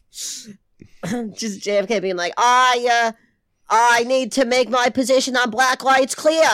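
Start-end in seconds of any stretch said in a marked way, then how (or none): 2.4-6.5 put-on Boston accent, raised and loud; JFK impression. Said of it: "That was not a bad J F K".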